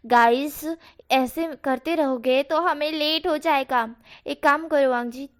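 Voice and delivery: slow loud plea to quarrelling friends; calling to calm. Acted. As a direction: raise voice to break up the fight. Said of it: "इन दोनों को शांत कराते हुए बोलता है".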